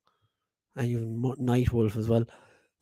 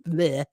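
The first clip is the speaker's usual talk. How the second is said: a short annoyed blurt after fluffing the line; frustrated bleh. Real, not acted. Host fumbling a tongue twister, annoyed bleh. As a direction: spit out a disgusted bleh. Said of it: "tongue twister".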